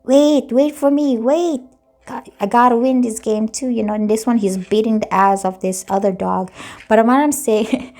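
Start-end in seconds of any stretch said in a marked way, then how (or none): 0.0-3.7 high, eager, squeaky voice for a small dog begging to keep up; little dog pleading. Pretend. Tarot reader voicing a small dog that trails the pack, high and eager. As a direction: play the small dog begging the big ones to wait. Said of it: "Or this dog is like".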